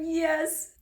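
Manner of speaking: high, whispery yes; overcome acceptance. Acted. Olive accepting Ethan's proposal, overcome whisper. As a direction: squeak out a breath of a yes.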